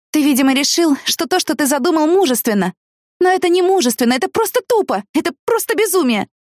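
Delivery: shouting. Acted. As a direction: shout it at him, furious. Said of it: "когда я начинала кричать".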